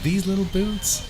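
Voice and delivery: high, slow incredulous question; comically doubtful, voice pitched right up; mock disbelief. Acted disbelief at flimsy boots.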